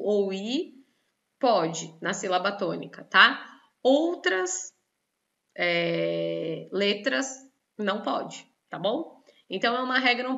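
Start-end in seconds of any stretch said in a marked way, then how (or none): none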